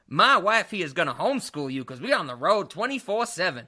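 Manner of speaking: lightly imitated trucker voice; trucker dad. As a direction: put on a hint of a trucker father. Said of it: "the trucker family where the guy's like".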